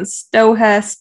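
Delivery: "Stohess" in two slow parts, STO-HESS; broken-up syllables. Real, not acted. Host unsure of the town's name, "Stohess" broken up. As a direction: sound the h in "Stohess". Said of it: "break it up like that".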